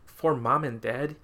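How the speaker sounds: slow, rising disbelief; incredulous echo. Retold or imitated. Mocking the movie's dedication to his parents, slow and incredulous. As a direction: repeat the dedication as if you can't believe it. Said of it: "I'm just like".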